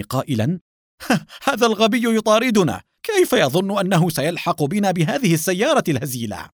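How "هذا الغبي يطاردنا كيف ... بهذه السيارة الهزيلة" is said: high-pitched, loud derision after a laugh; laughing scorn. A narrator's reading. Getaway driver to his passenger, laughing scorn. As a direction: scoff at the pursuer with a mocking laugh. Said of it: "بينما قهقه قائدها ضاحكا".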